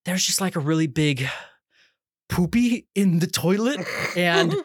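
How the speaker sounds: halting, delicate bad-news call to the boss; careful wording. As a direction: break it gently, pausing before the awkward word. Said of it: "I chose my words very carefully".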